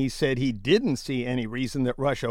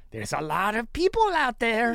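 lightly voiced Trump, pitched up; a hint of Trump's offhand shrug; host quoting the president, lightly mocking; mock Trump quote; 7 semitones higher than usual.

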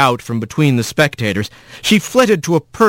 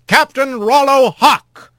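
slow formal summons; calling out; 12 semitones higher, slower than usual. A narrator's reading. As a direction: call the name across court. Calls out witness.

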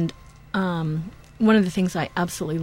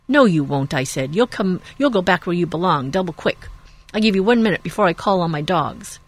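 angry farmer. Acted. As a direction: warn him off hard. Farmer threatens with his dogs.

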